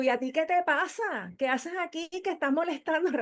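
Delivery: half-acted annoyed retort. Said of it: "Lo empecé como a increpar".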